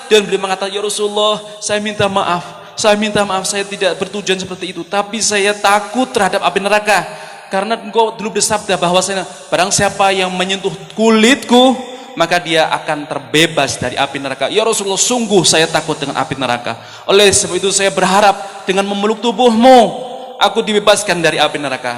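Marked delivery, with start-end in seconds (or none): 0.7-11.7 high-pitched, emotional apology; tearful pleading. Acted. 12.1-22.0 impassioned, emphatic plea; tearful pleading. Acted.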